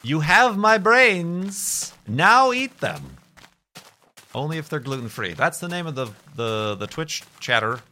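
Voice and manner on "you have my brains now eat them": slow, high, loud monster moan; drawn-out hammed-up zombie growl. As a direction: groan it out like a hungry zombie.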